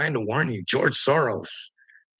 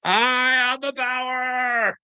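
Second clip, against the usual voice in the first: much higher, slow, drawn-out proclamation; power shout; 12 semitones higher, much slower than usual. Acted. Telling Willard he has God's power, slow triumphant high shout. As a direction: boom it out like a prophet.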